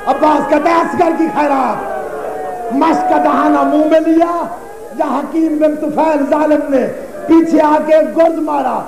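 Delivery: mournful, chanting sermon cadence, lines falling at the ends; lamenting majlis recitation. Acted. Preacher recounting Karbala to mourners, lamenting recitation. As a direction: mourn the tale aloud to the gathering.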